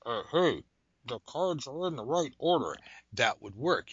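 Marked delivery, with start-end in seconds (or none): 0.1-2.8 higher announcing voice, swooping tune; imagined voice piping up; little voice in the head. Pretend. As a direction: sing out the good news like a helpful inner voice. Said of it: "I wish it was a voice that said".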